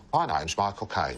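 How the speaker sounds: slow mock Cockney actor; Michael Caine. Friend predicting a rival's bad impression, slow mock Cockney. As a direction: send up a stock Cockney impression, slowly. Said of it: "it would be something along the lines of".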